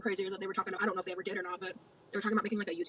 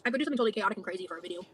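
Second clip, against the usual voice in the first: chewing while talking; mouth full; 2 semitones lower, faster than usual. Real, not acted. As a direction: talk through a mouthful. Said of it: "I don't wanna see you fucking chewing".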